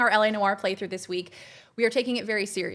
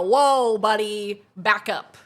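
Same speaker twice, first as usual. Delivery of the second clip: mock intimidated; 5 dB louder, much slower than usual. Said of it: "They go".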